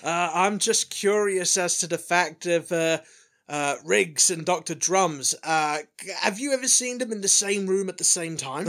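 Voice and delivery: lightly voiced pushy journalist; eager reporter voice. Second reporter asks question.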